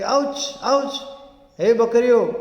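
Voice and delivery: high, loud mock yelp; acted cry out. Bubble tree yells to the goats in pain, crying out. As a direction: call out sharply as if hurt. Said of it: "ચીસ પાડીને કહ્યું".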